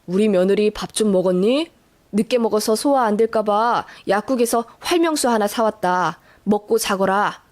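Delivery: low-pitched, gentle and caring; kindly, smiling. Acted. Father-in-law offering medicine to daughter-in-law, kindly with a smile. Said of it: "인자하게 웃으시며".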